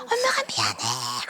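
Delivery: low, slow crying voice, breaking down; crying apology. Retold or imitated. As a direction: sob the words out slowly. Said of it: "목 놓아 울면서". (낮게 흐느끼며 사과하기)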